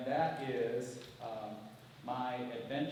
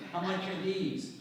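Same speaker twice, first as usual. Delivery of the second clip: put-on little girl asking; 5 semitones higher, 4 dB louder than usual. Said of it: "she asks".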